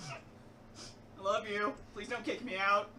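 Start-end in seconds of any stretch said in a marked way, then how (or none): 0.1-1.7 drawn-out pleading. Acted. Pleading after insult.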